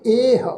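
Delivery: ਇਹ as a long "eh"; ਇਹ in one careful syllable; correct pronunciation. Shown as a demonstration. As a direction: hold the e of ਇਹ, with no "ho" after it. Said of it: "ਇਹਦਾ ਪਾਠ ਉਚਾਰਨ ਕਰਾਂਗੇ".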